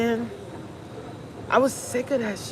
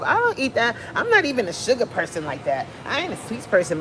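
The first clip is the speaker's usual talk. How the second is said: mock self-denial; 4 semitones higher, faster than usual. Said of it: "You keep telling yourself".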